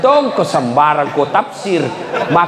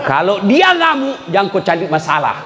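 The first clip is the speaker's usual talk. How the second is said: mock shout; 5 semitones higher than usual. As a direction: shout the warning as if she's raging. Warning about angry wife. (teriakan pura-pura)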